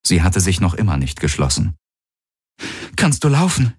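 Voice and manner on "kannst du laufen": higher woman's voice, asking gently; worried young woman asking; Kirai, concerned. Acted. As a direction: check on the wounded man. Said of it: "fragte Kirai".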